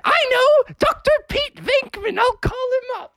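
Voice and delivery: very high, urgent mom voice; mother's bright idea. Acted. Mother thinks of calling the doctor, urgent. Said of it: "And Mother was like".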